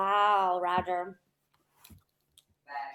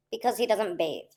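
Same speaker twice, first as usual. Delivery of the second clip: ordinary talk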